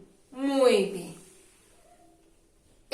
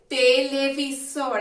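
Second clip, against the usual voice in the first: slow model word; 2 semitones higher, 3 dB louder than usual. Shown as a demonstration. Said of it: "vamos a decir su nombre".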